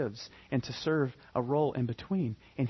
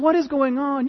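high, loud, put-on voice of the angry older brother; mock-outraged brother yelling at the house; indignant older brother; 12 semitones higher, 8 dB louder than usual. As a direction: bellow it in outrage from across the field. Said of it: "So he gets one of the servants".

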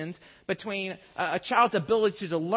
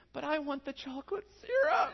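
put-on whiny child voice; 8 semitones higher, 4 dB quieter than usual. Five-year-old son pleading over ice cream.

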